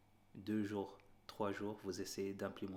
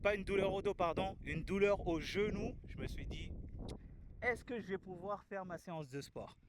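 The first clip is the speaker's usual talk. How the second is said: shouting over wind; 11 semitones higher, 5 dB louder than usual. Real, not acted. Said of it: "vous m'entendez avec le vent".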